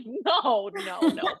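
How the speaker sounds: rising, laughing no, no, no; giggling protest to the husband; laughing denial. Retold or imitated. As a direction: brush it off through a laugh. I'm like.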